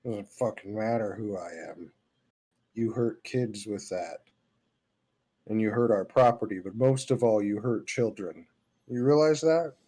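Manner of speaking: stern, cold accusation; angry confrontation. Acted. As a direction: lean in and scold him. Player berates the noble.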